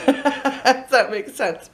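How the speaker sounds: slow, laughing through the words; nervous laugh. Real, not acted. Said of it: "I don't normally talk this much".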